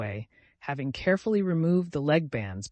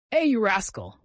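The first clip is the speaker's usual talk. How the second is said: higher, louder affectionate call; kind voice; 7 semitones higher, 5 dB louder than usual. A narrator's reading. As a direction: call out a fond mock scolding. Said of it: "heard the same kind voice saying".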